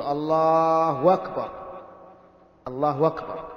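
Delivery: الله أكبر with the hamza turned into a w, lalːahwakbar, drawn out slowly; mock call to prayer, الله وكبر, slow and stretched; imitating a muezzin. Sheikh imitates the muezzin who says الله وكبر. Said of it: "في بعض المؤذنين يقول".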